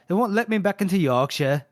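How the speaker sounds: light mock Yorkshire; Yorkshire accent. Host checking the accent with his British co-host, mock Yorkshire. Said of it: "Oh, Yorkshire".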